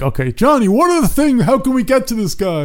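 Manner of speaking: high, eager planning voice; lightly voiced scheming handler; mock planner voice. Voicing handlers planning in story.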